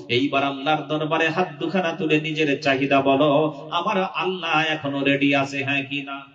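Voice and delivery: measured, lightly intoned sermon; sing-song preaching. Real, not acted. Preacher telling listeners to bring needs to Allah, intoned preaching.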